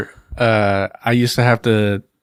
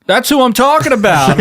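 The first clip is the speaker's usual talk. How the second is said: high, louder voice of an irritated man; high, louder mock customer griping at the mailman; mock grumpy customer; 13 semitones higher, 4 dB louder than usual. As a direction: play the cranky guy complaining. Imitating same customer.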